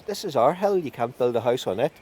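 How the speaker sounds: fairy king voice. Acted.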